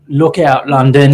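a hint of a loud game-trailer announcer; mild mock trailer shout; ad guy voice. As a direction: punch it like a video game ad. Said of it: "it's in some dude's voice".

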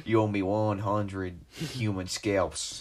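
slow drawn-out zombie voice. Retold or imitated. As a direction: stretch it out like a zombie. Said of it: "He'd be like".

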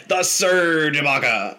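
drawn-out mock yell of a heckling friend; imitated bench scream. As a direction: stretch it out like a cheer from the bench. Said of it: "scream from the bench".

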